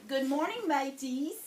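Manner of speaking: hearty pirate hello; pirate greeting. Pretend. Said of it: "So, I'm gonna say".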